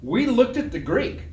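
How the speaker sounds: high, loud comeback; insistent retort. Retold or imitated. Retorting over yelling students.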